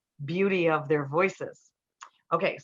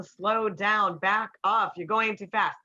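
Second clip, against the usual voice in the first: masculine commanding; 3 semitones higher, slower than usual. Retold or imitated. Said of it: "saying it from the masculine".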